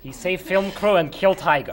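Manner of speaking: put-on boasting about a hero in a Russian accent. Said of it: "speaking in the Russian accent".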